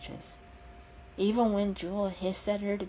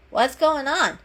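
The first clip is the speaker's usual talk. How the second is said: higher, louder worried question; anxious question; 7 semitones higher, 8 dB louder than usual. Acted. Pepper asking the pair about Jewel, higher and alarmed. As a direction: call out in alarm.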